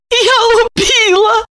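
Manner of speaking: high wailing lament; high tearful wailing; sobbing. A narrator's reading. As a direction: wail through tears. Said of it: "разрыдалась".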